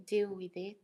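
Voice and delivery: usual speaking voice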